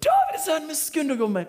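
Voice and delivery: piercing, very high yell. Acted. Preacher acts blind man outdoing the hushers, high shout. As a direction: scream the plea at the top of the range. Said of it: "Han ropte enda høyere".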